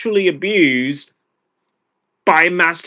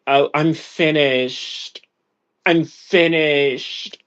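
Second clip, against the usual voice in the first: deep-voiced quote; much slower than usual. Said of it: "She said it in a deeper voice than I can".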